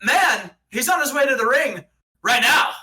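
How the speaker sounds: announcer voice. Pretend. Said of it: "He's like".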